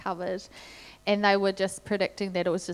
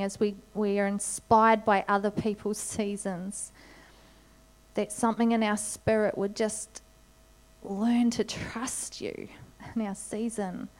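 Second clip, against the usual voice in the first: heartfelt prayer. Acted. Pastor prays over congregation.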